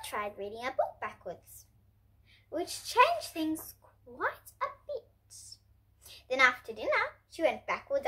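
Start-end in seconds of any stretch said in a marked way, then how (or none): 2.5-5.6 much slower and higher, strange tone; slow odd voice. Acted. Narrator making backwards reading sound odd, slow. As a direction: stretch it out like it's topsy-turvy.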